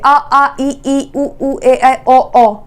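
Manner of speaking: each vowel drawn out in turn, आ आ ई ई; vowels chanted out for the class; vowel sounds. Shown as a demonstration. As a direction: sound out the vowels slowly, one by one. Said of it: "ओ की ध्वनि आ रही है".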